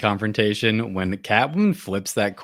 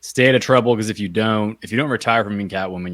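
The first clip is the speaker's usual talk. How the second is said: loud, much higher stern lecturing voice, warning her off; stern lecture; 3 semitones higher, 7 dB louder than usual. Retold or imitated. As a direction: bark the warning at her like a scolding lawman. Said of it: "lecturing Selena".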